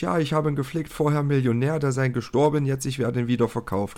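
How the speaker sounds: lightly imitated Eastern European broken German; hint of a Polish accent in broken German; mild mock Eastern European accent. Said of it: "erzählt im gebrochenen Deutsch".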